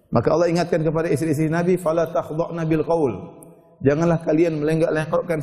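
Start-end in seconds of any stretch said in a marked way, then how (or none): 1.8-3.1 slow, drawn-out chanted Arabic; Quranic recitation. Real, not acted. Preacher recites the verse to the women, slow chant. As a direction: intone the verse slowly and evenly.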